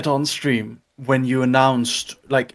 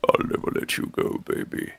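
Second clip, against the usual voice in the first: whispered, softer impression; Hex; 9 dB quieter than usual. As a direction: murmur it intimately, imitating him. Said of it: "I put on the Hex face".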